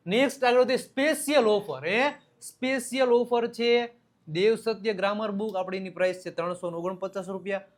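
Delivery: upbeat promo read. Acted. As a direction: sell the combo offer. Reads a sales offer.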